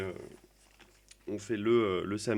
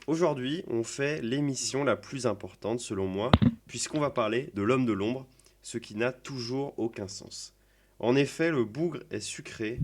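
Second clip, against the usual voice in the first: hammy stage actor. Acted. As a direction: declaim it like a ham actor on stage. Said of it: "je vais la déclamer maintenant".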